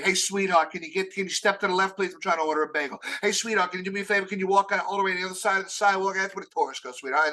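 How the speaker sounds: fast brusque New Yorker, hint of the accent; impatient New Yorker. New Yorker in bagel line shooing a tourist, brisk. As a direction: hurry the tourist aside. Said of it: "If you get called sweetheart".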